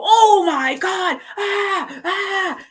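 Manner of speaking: high slow shriek of panic; hammed-up terrified screech; mock scream. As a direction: shriek like a terrified ghost hunter. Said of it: "and start screaming in your face".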